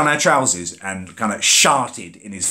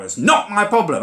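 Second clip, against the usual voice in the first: much higher, insistent jobsworth snap; mock aggressive driver; 10 semitones higher than usual. Driver refusing the buggy, higher mock aggression. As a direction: stonewall him with a mock snap. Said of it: "He keeps going aggressively now".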